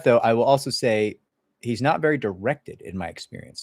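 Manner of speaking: ordinary talk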